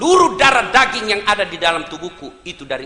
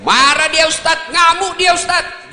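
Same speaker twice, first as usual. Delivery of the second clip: mock complaint; 7 semitones higher, 7 dB louder, slower than usual. Congregant complains wife rages.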